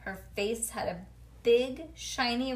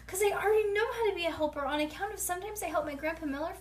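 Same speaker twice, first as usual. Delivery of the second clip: excited rush; 8 semitones higher, faster than usual. Acted. Excited kid rushing.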